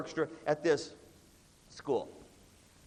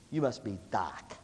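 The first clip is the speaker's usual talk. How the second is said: low, slow, softer kingpin voice; cool kingpin kid; 9 semitones lower, 5 dB quieter than usual. Acted. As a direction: imitate a too-cool student sizing someone up. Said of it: "he walks up to me, and he goes".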